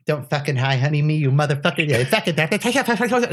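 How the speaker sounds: imitated rapid-fire scolding; mock scolding spiel, speeding up; wife's angry tirade. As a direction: rattle off a furious rant into gibberish. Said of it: "she's, you know, Syrian Spanish".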